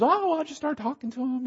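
high, breezy, offhand voice; easygoing evangelist. Retold or imitated. Pastor imitates the evangelist guy, high and breezy. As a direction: toss it off like it's nothing.

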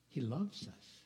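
soft, sincere declaration; tender. Real, not acted. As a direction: say it gently and mean it. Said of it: "Can I say that again?".

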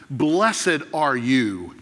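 "Blessed" drawn out, very slow and weighty; slow solemn blessing. Acted. Jesus commending Peter, slow and solemn. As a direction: let "Blessed are you" unfold slowly.

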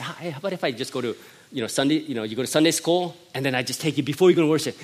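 quick joking offer to his son; teasing offer. Retold or imitated. Father teases nervous son with a fake deal. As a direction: rattle off a playful deal. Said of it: "I said".

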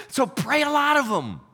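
rally the crowd with a shout; shouted exhortation. Real, not acted. Preacher exhorts the congregation.

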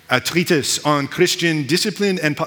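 badly faked French accent; hint of a put-on French accent. Shown as a demonstration. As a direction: attempt a light French accent, not very convincingly. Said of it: "I'll say it with a French accent".

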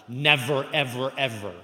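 never punched loud, ever ever echoing; preacher's insistent repeat; emphatic never. Real, not acted. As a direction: drive each never home. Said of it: "very emphatic".

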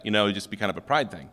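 ordinary talk

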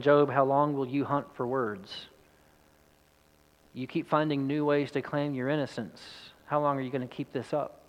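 understated, tired reproach; wearied. Acted. Friends tiring of Job's claims of innocence, mildly wearied. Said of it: "begin to tire of the conversation".

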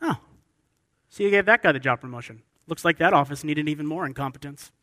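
mock sarcastic congratulation; acted office bitterness, lightly done; sarcastic and bitter. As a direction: grumble sarcastically about an unfair promotion. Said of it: "you get all sarcastic and bitter".

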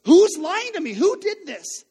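loud, high furious demand; angry dad voice. Retold or imitated. Dad grilling the kids over the toilet logs, angry shout. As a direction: interrogate the kids like an enraged dad. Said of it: "I've got that angry dad voice".

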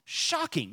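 "Shocking" jumps high, stressed; echoed for effect. Real, not acted. Preacher echoing his own word to the church, high stressed. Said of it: "is shocking".

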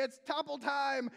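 hammed-up topple call; mock announcer call. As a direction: call it like a show host. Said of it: "they go and they say".

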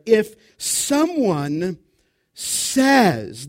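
says drawn out slowly, rising at the end; stress on says. Shown as a demonstration. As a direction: lean slowly on the word says. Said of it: "there's the key".

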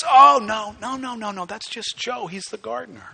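high-pitched, quickly softening dismissal of alarm; acted reassurance. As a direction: play the friend soothing a panicked caller. Friend reassures the panicked caller.

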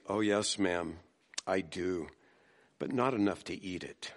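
put-on a polite child gently declining; sweetly. A narrator's reading. Little girl sweetly refusing the hostess's broccoli, soft and polite. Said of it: "The girl replied sweetly".

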